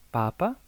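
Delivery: Papa stressed on the first syllable, PA-pa. Shown as a demonstration. Teacher showing students Papa, stress on first syllable. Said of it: "el acento está en la primera A".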